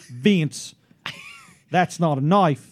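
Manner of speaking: slow, attempted Australian accent of a coworker; Ruth Brown. Shown as a demonstration. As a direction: convert the film Australian into her Australian accent. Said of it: "now I gotta convert that".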